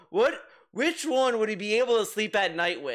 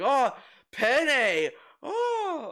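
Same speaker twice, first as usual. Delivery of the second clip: higher-pitched excited exclamations, drawn out; mock excitement; 6 semitones higher, much slower than usual. Streamer mimicking DSP playing a Simpsons game, mock excitement. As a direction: imitate an over-excited streamer. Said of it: "he gets so fucking excited".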